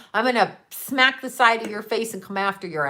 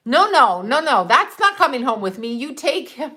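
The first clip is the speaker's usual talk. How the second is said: retold refusal; 2 semitones higher, 3 dB louder than usual. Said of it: "And I'm like".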